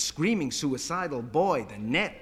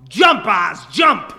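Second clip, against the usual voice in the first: high, full-force yell; loud, high-pitched urging; egging-on shout; 5 semitones higher, 15 dB louder, much slower than usual. Acted. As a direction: goad a friend from down in the street. Itzy eggs on boy on roof.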